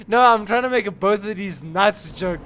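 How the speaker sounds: giggling through the words; can't hold a straight face; breaking character giggling. Real, not acted. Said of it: "but I can't keep a straight face".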